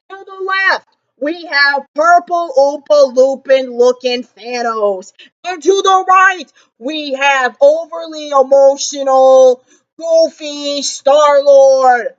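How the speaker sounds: slow, drawn-out fight-night intro; boxing ring announcer. Acted. Vlogger introducing the fighters, slow announcer call. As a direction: stretch each name like a ring announcer.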